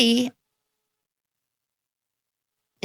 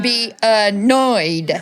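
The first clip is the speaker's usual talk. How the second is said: drawn-out mock irritation; slow, annoyed; much slower than usual. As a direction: stretch each syllable in imitated annoyance. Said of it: "she would speak slower".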